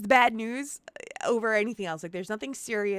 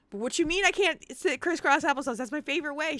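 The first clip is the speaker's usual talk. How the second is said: higher-pitched, mildly indignant objection; mock protest; 5 semitones higher, faster than usual. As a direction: play up a little indignant protest. Acted protest to the doctor.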